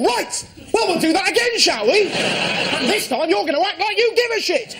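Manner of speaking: bossy charity shop voice. Pretend. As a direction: talk down to the volunteer like a prissy manager. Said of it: "You almost wanna go".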